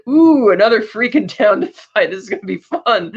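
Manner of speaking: playful imitation of a delighted villain; Joker. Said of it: "Joker can see now through the camera".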